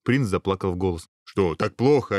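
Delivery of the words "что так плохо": mild concern; anxious host, understated; worried ogre. Acted. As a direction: ask with a touch of worry. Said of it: "обеспокоился людоед".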